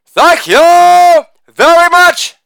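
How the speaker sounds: high, slow crooner-style thank you. Acted. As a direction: drawl it like a famous crooner. Crooner-style sign-off.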